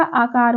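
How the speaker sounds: आकार with its first vowel drawn out as "aakar"; long aa. Shown as a demonstration. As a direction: stretch the aa of आकार. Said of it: "वर्तनी के अनुसार अकार का क्या हो जाएगा". (आकार में लंबा आ)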